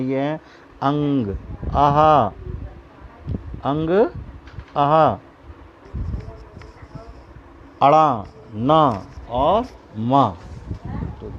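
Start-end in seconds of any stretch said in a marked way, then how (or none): 0.8-10.4 slow, drawn-out nasal syllables अंग and आहा; nasal sound demo. Shown as a demonstration. Teacher sounding out nasal consonants for the class. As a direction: hum each nasal through the nose. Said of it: "नासिक के व्यंजन".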